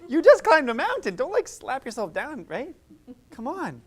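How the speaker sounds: loud, rising pep talk; hammed-up coach cheering from a summit. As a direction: pump up a friend who doubts himself. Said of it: "I'm like".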